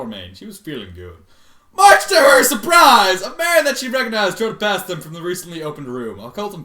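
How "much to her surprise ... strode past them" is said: mock dramatic shout. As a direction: bellow the phrase for effect. Rereads line in shouted mock drama.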